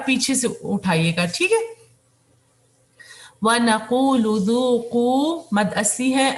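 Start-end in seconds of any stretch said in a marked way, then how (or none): 3.4-5.4 slow melodic tajweed recitation; Quran recitation. Shown as a demonstration. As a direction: chant the verse slowly and evenly.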